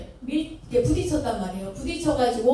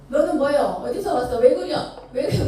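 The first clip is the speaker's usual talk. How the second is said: a Chungcheong official yelling, a bit louder; scolding in thick Chungcheong dialect, finger jabbing; angry Chungcheong dialect; 3 semitones higher, 5 dB louder than usual. Retold or imitated. Fallen official yells at the servant boy in Chungcheong dialect, angry. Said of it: "고향이 충청도일 거 아니에요".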